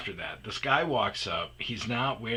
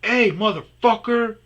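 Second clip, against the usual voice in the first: much louder and higher shouted call; yelling; 11 semitones higher, 9 dB louder than usual. Retold or imitated. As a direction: yell across the yard to chase him off. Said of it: "I said".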